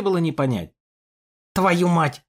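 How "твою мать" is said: hissed curse. Acted. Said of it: "прошипел он".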